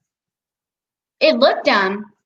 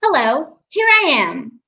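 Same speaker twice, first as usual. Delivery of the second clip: slightly raised, measured greeting; first, more restrained voiceover take; first line-read option; 4 semitones higher than usual. Shown as a demonstration. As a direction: announce yourself lightly, a little higher. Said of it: "give me A B C of".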